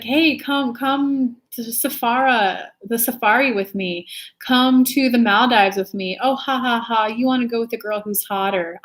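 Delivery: a mock-flirty put-down with a fake laugh; mocking younger self. Imitating her younger self turning down guys, teasing. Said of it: "I would say that shit to guys".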